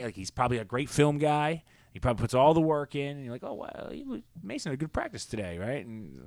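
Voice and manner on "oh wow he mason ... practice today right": mock praise. Mocking coaches' praise.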